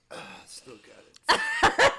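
laughing, slow and high. Retold or imitated. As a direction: cackle it out smugly. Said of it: "I was just like".

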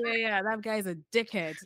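quick attempt at a UK accent. Co-host acting the rival dismissing him, in UK accent. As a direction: say it like the UK bros do. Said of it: "like the way the U K".

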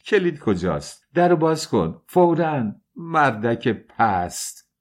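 high, urgent orders; frightened outrage, pitched high; angry demand. A narrator's reading. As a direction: demand the key, then spit out the insult slowly. Trapped woman demands the key.

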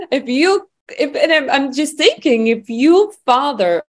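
high, teary voice as emotion catches her; fighting back tears while speaking; voice breaking. Real, not acted. She recalls her mission and her voice breaks, teary and high.

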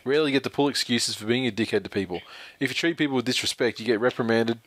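steady, even email read-out; reading aloud. Real, not acted. Host reading a listener's email on Darius Boyd, reading aloud. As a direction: read a written opinion piece straight through.

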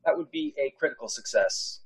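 hushed whisper, almost no voice. Real, not acted. Player whispering his dice result to the game master. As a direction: breathe the result out in disbelief.

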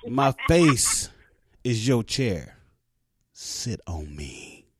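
low, slow seductive purr; sexy deep-voiced singer voice. Shown as a demonstration. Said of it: "you gotta say it sexy".

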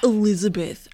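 throaty Elizabeth Holmes attempt. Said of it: "pull back in my throat".

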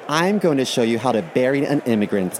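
bubbly high influencer vlog voice; chirpy sponsored-video host. Pretend. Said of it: "something like this".

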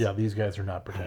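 hushed joking aside; whispering. Pretend. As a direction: whisper it like a secret.

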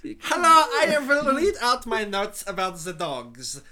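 hammed-up expert announcing his notes; mock expert. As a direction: play the self-important dog expert. Playing dog expert on cue.

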